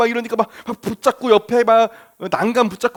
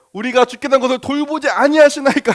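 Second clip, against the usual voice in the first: hurt reproach; 4 semitones higher than usual. Retold or imitated. Scene: disciples protest to sleeping Jesus, hurt. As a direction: let the hurt show plainly. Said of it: "엄청나게 서운한 티를 막 내는 거죠".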